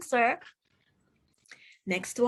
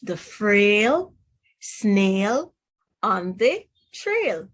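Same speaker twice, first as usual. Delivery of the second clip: The Frail Snail on the Trail, each word spaced and leaned on, Frail and Snail louder; stressed title words; 3 dB louder, much slower than usual. Shown as a demonstration. Teacher stressing the rhyming vowel sounds for children, paced and emphatic. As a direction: pause on Frail and Snail and punch their long a. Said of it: "if you notice by the title".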